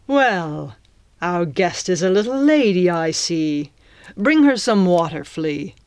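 lightly voiced mocking pirate captain. Captain remarks on his captive's manners, mocking pirate voice. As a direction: play a pirate villain toying with a guest.

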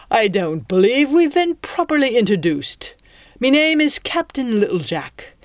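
smug pirate introducing himself; pirate captain voice. Acted.

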